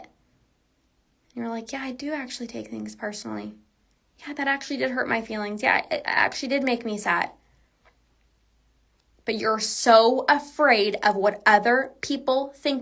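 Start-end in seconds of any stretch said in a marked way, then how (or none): 1.7-7.3 softly imitating someone owning up; subdued, much softer acted reply; quiet hurt admission. Admitting hurt feelings to critics, quiet and subdued.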